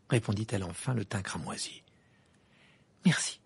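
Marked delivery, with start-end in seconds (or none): 3.0-3.4 short thanks with relief; relieved. A narrator's reading. Harry thanking Parvati for accepting, relieved. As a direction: let the tension go as you thank her. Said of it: "dit Harry soulagé".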